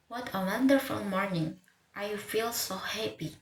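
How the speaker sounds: "What a wonderful morning. I feel so happy" in stress-timed rhythm; stressed syllables as beats. Shown as a demonstration. Teacher demonstrating English rhythm, stressed syllables carrying the beat. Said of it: "stress syllables act like beats in, in speech".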